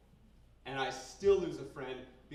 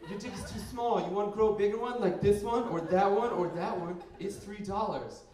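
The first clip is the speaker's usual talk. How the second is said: loud, higher-pitched pushy ad pitch; pop-up ad; 4 semitones higher, 7 dB louder than usual. Acted. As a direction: hawk it loudly like a pop-up ad. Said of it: "how are pop-up ads legal".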